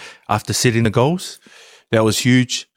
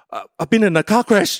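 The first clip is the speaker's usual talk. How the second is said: fake crash call; 9 semitones higher than usual. Pretending he crashed, laughing.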